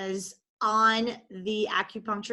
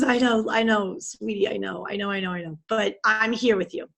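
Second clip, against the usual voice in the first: tender reassurance. Retold or imitated. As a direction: soothe someone who is crying. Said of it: "And she goes".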